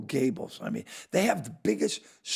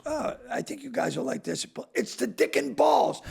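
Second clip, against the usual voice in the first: mock director pitch; 10 semitones higher than usual. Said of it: "Peter Farrelly goes".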